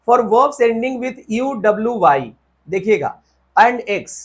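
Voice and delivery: reading the rule out slowly, word by word; teacher dictating a rule. Shown as a demonstration.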